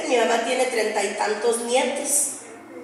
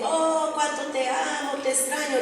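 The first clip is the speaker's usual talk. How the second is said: mock sentimental post; 6 dB quieter than usual. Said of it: "las que pongo en Facebook".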